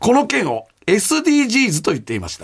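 even-paced radio mail reading; listener letter read-out. Acted. Host reading a listener's mail about Tsuda on the radio, measured read-aloud.

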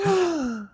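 high, soft gasp of mock surprise; acted gasp. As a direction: gasp as if swept away. Acts own reaction to invitation.

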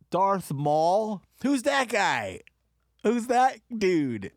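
high, loud fan excitement; excited ranting. Real, not acted. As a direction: rave about the villain.

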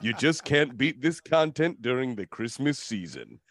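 measured, dramatic trailer narration; epic movie-trailer voice. Acted. Host reads glowing listener review, epic trailer voice. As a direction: read it like an epic film trailer. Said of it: "my epic movie trailer voice".

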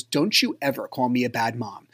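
low, restrained parental warning; stern reprimand. Retold or imitated. Mom to her kid at eye level at the carnival, low stern reprimand. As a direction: retell a mom's firm scolding, kept low.

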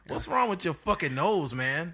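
exasperated yell. Retold or imitated. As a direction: yell at the clerk in disbelief. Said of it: "You'd be like".

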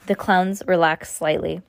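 ordinary delivery

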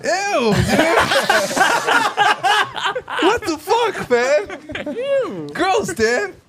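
squealing high grossed-out voice; high disgusted voice. Acted. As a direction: shriek ew like a disgusted girl. Mocking group's disgusted reaction.

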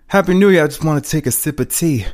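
high, loud "Happy New Year"; big theatrical cheer; performed character greeting. Acted.

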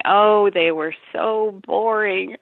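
slow, airy brush-off; dismissive. Retold or imitated. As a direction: wave it away as dull. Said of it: "she would just sort of poo-poo me".

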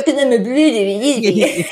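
laughing through the quoted line; giggling while repeating the joke; laughing quote. Retold or imitated. Co-host quoting Niles, laughing through it. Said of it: "he even goes".

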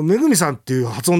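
puzzled echo of how めぐみさん was pronounced; questioned intonation. Retold or imitated. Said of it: "イントネーション変わったのかな".

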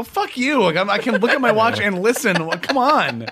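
rude guy voice. Retold or imitated. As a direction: snap it at someone like a jerk. Imitating rude character.

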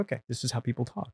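quick, hushed mock British accent; a kid trying on a British accent to fit in; put-on British accent. New kid in Hong Kong imitating British classmates, mock British accent. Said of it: "I put it on because I'm like".

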